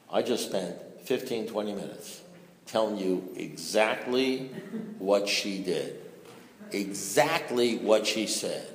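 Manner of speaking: slow, spaced-out retold complaint; exasperated insistence. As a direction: spell it out phrase by phrase, as if to someone not listening. Acts out exasperated reply to sponsor.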